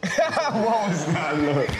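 laughing through the question. Real, not acted. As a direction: giggle as you ask.

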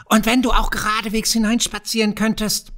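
a sneering kobold enjoying his secret; crafty goblin teasing the young farmer. A narrator's reading. Kobold goes on taunting.

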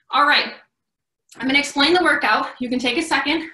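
breathless after burpees; panting between words; out of breath. Real, not acted. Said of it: "I know I'm out of breath".

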